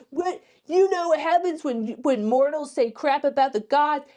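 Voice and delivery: high, loud outraged scolding; hammed-up furious god; mock yelling god. Hades scolding Lyra for insulting Athena, mock yell. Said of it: "he's, like, yelling at her".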